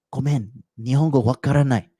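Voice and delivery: lightly voiced clueless foreigner; playing dumb foreigner. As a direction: shrug it off in broken Japanese. Faking no Japanese.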